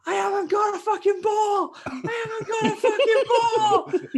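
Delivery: very high, squealing comic yell; mock panicked shouting. Teammate shouting that the ball is missing, mock squeal. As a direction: wail it at top pitch. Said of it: "That person's shouting".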